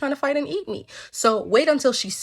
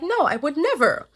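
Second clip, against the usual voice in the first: high-pitched fish denying everything; mock-offended little fish; innocent fish; 6 semitones higher than usual. Fish denies it to the lady.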